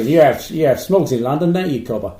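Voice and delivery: loud mock Australian accent; hammy Aussie voice with "cobber". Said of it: "That was Australia".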